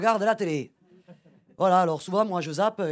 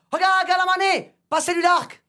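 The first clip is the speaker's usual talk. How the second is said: high mock crowd echo; hammed-up tribal crowd; 6 semitones higher than usual. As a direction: echo the order as the tribe. The crowd repeats the order.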